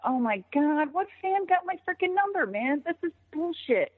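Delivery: high-pitched retold exasperation; exasperated outburst. Wrestler gripes that a fan got her number, exasperated. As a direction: replay an indignant gripe, pitched well up.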